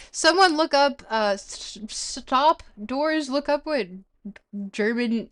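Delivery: high, loud urgent request; excited. Real, not acted. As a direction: call out eagerly to chat. Excited demand to chat.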